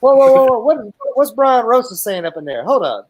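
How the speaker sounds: high, loud excited whoas; excited shout. Real, not acted. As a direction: call out in excited disbelief. Reacting to a chat quote.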